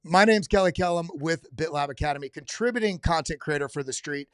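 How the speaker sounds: steady announcer-style intro; restarting the line. Shown as a demonstration. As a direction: read the intro cleanly as a promo. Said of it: "do it again".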